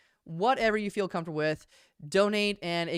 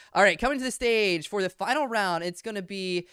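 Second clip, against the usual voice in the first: big hype intro; announcer; 3 semitones higher, 8 dB louder than usual. Acted. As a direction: call the team out loud. Hypes the team onto the stage.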